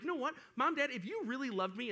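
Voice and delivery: guilt-trip your parents; acted, mildly whiny accusation; upset kid. Acting upset child at parents.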